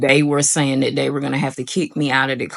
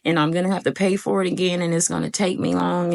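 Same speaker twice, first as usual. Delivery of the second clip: higher, rushing panicked self-talk; panicked worry; 5 semitones higher than usual. Retold or imitated. Breaking down before the test, panicked and higher. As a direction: spiral into fear of failing. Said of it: "breaking down".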